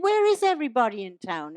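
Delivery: quick mock American cowboy question; lightly hammed American Western voice; American accent. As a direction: ask it briskly in put-on American. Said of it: "this is an American accent now".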